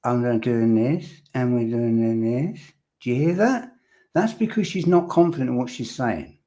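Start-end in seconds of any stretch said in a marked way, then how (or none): 0.0-2.6 imitated questioning lilt, "this" sliding up at each end; both phrases end on a rising "this"; upwards inflection. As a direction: mimic her uptalk, letting each "this" climb like a question. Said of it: "upwards inflection in her voice".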